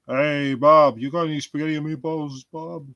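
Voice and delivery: high, fast put-on shout; hammed-up call; mock calling out. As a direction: hail a shopkeeper. Calling to imaginary Bob.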